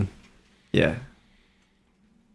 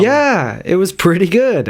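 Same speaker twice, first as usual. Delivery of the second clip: drawn-out, swooping delivery; odd singsong; 3 semitones higher, slower than usual. Real, not acted. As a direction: let the pitch swoop up and slide down. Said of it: "I don't know why I said it like that".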